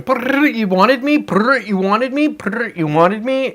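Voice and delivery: high robotic buzzing voice; mimicking the watch calling for him, high and slowing; imitating the watch. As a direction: buzz like a smartwatch and ask, slowing down. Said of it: "the watch starts going".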